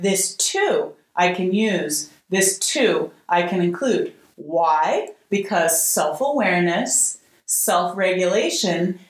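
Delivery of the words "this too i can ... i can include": calm mantra. Shown as a demonstration. Offering students her phrase, slow gentle mantra. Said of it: "you meet it with".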